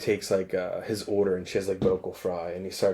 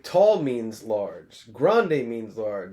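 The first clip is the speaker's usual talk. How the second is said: condescending; 4 dB louder, much slower than usual. Retold or imitated. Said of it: "He's like".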